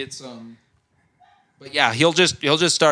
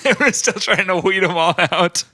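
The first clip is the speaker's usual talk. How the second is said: mock Australian accent; 3 semitones higher than usual. Joking about seventies Australia in Aussie accent. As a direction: say it as a hammed-up Australian.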